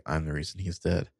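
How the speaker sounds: understated, toneless retold confession; deadpan. Mona answers Allison about the death, deadpan. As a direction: say it drily, no reaction at all. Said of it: "Mona is just very deadpan".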